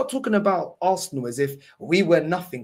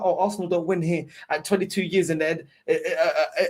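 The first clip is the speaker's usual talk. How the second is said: mocking with a laugh. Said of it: "when you're talking about".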